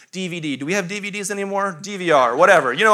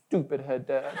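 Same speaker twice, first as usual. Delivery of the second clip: put-on toddler insult; 8 semitones lower, 11 dB quieter than usual. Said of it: "looks straight at me and goes".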